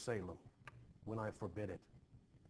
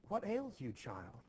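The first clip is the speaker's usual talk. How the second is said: startled concern; 8 semitones higher than usual. Acted. Wife notices girl weeping.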